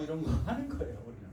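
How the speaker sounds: ordinary talk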